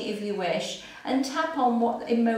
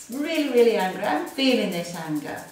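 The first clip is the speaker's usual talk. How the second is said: mild anger; faster than usual. Shown as a demonstration. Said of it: "Between the lip and the chin".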